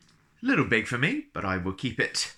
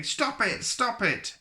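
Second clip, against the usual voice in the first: pitched way up, giggly protest; laughing teacher's plea; slower than usual. Acted. Teacher being tickled begs him to stop, high and giggly. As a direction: squeal it like someone being tickled.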